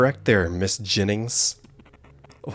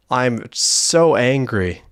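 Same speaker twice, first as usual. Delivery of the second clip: mock angry; 2 semitones higher, 4 dB louder, much slower than usual.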